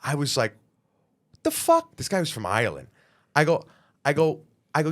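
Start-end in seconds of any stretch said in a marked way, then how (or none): 1.3-1.9 sudden high, loud outburst; pissed off. Retold or imitated. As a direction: snap back in disbelief, much higher. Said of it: "pissed off".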